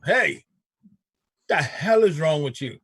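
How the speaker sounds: a mild mock shout down the phone; half-hearted yell at a friend; mock angry call. Calling friend after argument.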